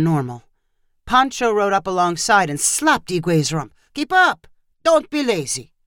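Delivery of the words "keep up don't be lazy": shouted. Acted. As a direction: guide yelling at a lagging horse, sharp shout. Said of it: "Pancho shouted".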